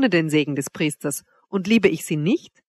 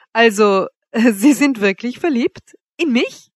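laughing, higher-pitched question; bursting into laughter; 5 semitones higher, 5 dB louder than usual. A narrator's reading. Woman to the man in love with her, breaking into laughter. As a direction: say it through sudden amused laughter. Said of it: "brach sie in Lachen aus".

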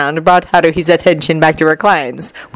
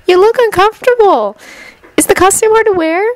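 concerned; 12 semitones higher than usual. A narrator's reading. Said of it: "addressed her with concern".

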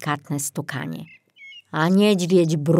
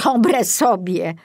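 sarcastic; 4 semitones higher, 3 dB louder, slower than usual. Acted. Piątek's sarcastic retort.

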